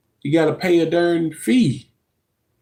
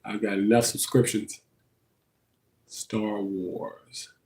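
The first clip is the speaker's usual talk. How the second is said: whisper; 5 semitones lower, 9 dB quieter, slower than usual. Real, not acted. Searching streaming titles to herself.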